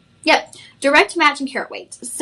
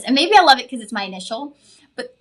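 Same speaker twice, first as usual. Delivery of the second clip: out of breath, words running out; breathless, gasping mid-sentence; catching breath midword; 3 dB louder, faster than usual. Real, not acted. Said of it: "sorry, lost my breath".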